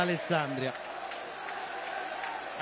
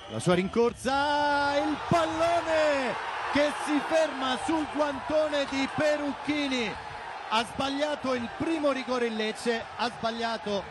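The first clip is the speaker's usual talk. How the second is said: breathless italian goal commentary; 4 semitones higher than usual. Acted. Missed penalty, live call.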